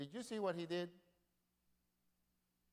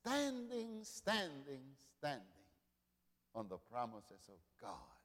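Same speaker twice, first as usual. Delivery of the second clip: fading repetition; 3 semitones lower, 5 dB quieter, slower than usual. Acted. Preacher repeats, fading down.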